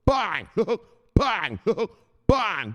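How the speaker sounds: laughing through high, loud bangs. Pretend. Streamer laughing as he mock-shoots viewers, loud bangs. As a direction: shoot them off while cracking up.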